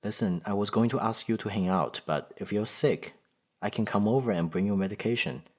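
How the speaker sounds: kindly, helpful offer; mildly acted friendly concern; genuinely nice. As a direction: offer help sincerely. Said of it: "He sounds genuinely nice".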